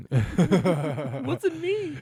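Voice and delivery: very high squeaky mock voice; panicked excuse. Pretending to dodge blame from an MMA fighter, very high squeak. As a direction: squeak out the blame like a scared kid. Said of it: "It's like".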